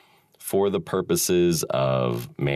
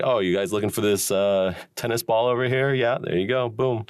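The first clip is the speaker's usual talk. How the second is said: cheery helpful voice; 8 semitones higher than usual. Retold or imitated. Voicing himself handing kid ball.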